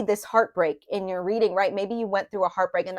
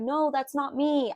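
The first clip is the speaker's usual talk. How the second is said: high, slow protest; stressed-out protest; 6 semitones higher, slower than usual. Acted. Reader voices Leos stressed by their image, drawn-out protest. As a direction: push back, drawing the words out. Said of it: "you're like".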